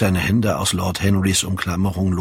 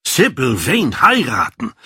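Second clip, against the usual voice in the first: higher, incredulous exclamation; astonished cry; 5 semitones higher than usual. A narrator's reading. Lord Henry reacts to Dorian's marriage plan, astonished cry. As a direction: cry it out as a stunned question. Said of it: "schrie Lord Henry auf".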